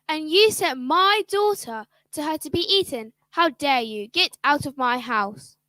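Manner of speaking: angry father. Acted. Father throws out stepmother.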